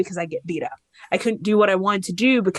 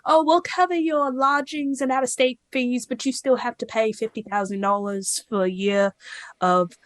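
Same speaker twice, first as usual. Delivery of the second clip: a light mock British accent, higher at the start; 3 semitones higher than usual. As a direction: read the college offer in a mock British accent. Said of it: "everything sounds better with the British accent".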